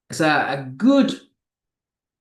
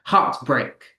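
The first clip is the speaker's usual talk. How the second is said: "Heartbreak" with both syllables hit hard; "Heartbreak" as two strong beats; two stresses. Shown as a demonstration. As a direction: give equal force to both halves of "Heartbreak". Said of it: "two intensely spoken words".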